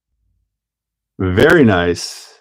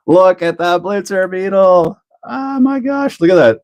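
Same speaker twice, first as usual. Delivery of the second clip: higher, delighted gushing over the car; excited; 8 semitones higher than usual. Real, not acted. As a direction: show it off, thrilled and amazed. Showing off the finished car.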